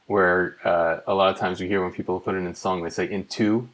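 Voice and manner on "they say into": into with the stress on the second part, tu, rising; misstressed word. Shown as a demonstration. Songwriter mimicking singers who stress into on the tu. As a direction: hit the tu in into. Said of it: "misstressed word in songwriting is into".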